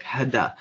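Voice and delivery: "Hedda" said as "HAD-da", both vowels open like in cat; Czech director's pronunciation. Retold or imitated. Retelling how her director said her name, "Hedda" as "Hadda". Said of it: "that's how he pronounced my name".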